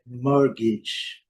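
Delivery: "mortgage" slow, T silent, ending "gidge"; British pronunciation. Shown as a demonstration. Teacher modelling a tricky word, "mortgage" slow with short i ending. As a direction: say "mortgage" slowly as "MOR-gidge". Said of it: "não pronunciamos o R".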